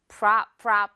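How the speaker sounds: 프라 whispered with an open ah; whispered 프라 drill. Shown as a demonstration. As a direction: breathe out 프라 with the mouth wide. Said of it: "실수하기 딱 좋거든요".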